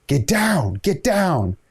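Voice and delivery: high mock yell, rising; yelling a warning across the beach; retold scream. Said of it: "I start screaming at him".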